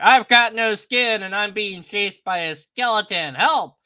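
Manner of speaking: loud hammed-up cry for help; mock scared; mock panic. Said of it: "This guy's being chased by the skeleton".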